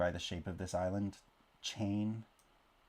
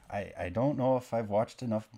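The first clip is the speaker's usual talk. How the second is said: put-on playful Canadian accent; 4 dB louder than usual. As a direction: put on a Bob and Doug style Canadian accent. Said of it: "carry on the Canadian accent".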